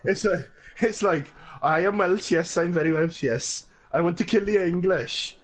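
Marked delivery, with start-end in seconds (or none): 1.6-5.4 put-on lightly done, failing Welsh accent; a mock Welsh accent that drifts; bad Welsh accent. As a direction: attempt a Welsh accent and miss. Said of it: "your Welsh accent sounded very Pakistani".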